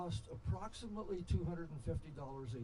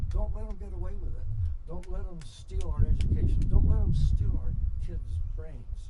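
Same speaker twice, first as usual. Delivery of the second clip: rallying cry; 10 dB louder than usual. Real, not acted. Speaker rousing the audience against debt, loud rallying cry. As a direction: rouse the crowd to fight back.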